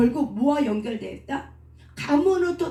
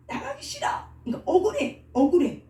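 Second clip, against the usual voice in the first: protesting spirit; 6 semitones higher than usual. Retold or imitated. Preacher imitating a spirit refusing exorcism, high-pitched protest. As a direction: voice a spirit whining to stay.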